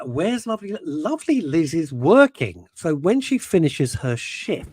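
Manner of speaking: slow, careful wording; said carefully. Shown as a demonstration. Reading a chat line slowly to avoid innuendo. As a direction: tread carefully over each word. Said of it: "to say that very carefully".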